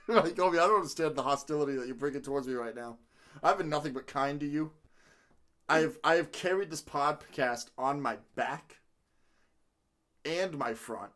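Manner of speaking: low, measured, wounded dignity; solemnly aggrieved, with weighty pauses; mock offended. Host scolding Kobe for making fun of him, mock offended.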